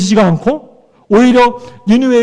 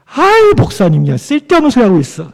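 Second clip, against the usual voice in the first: annoyed church member. Acted.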